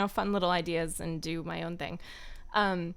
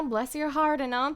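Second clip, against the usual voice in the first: put-on southern accent; 4 semitones higher than usual. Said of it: "I can do a southern accent".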